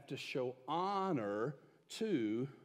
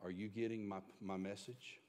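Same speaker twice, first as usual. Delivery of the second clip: low, hushed, deliberate delivery; very quiet; 5 semitones lower, 8 dB quieter than usual. Retold or imitated. Dad leaning inches from his son's face, very quietly. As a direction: lower your voice to a soft, pointed question. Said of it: "very quietly said".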